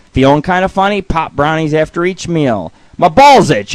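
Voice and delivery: projected mock-medical announcement; mock prescription read-out. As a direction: read out the dosages emphatically. Reads mock doctor's dosage list.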